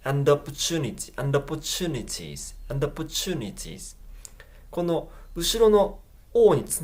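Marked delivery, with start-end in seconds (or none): 0.0-3.9 "and opportunities" run together, with a weak "and"; barely stressed "and" flowing into "opportunities"; linked words. Shown as a demonstration. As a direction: join "and" to the O of "opportunities" as one word. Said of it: "単語と単語がつながるリンキング".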